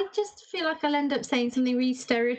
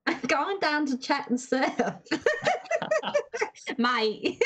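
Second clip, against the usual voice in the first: Aussie accent attempt; 4 semitones higher, slower than usual. Shown as a demonstration. Host trying the surf line for the panel, attempted Aussie accent. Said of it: "have a go at an Aussie accent".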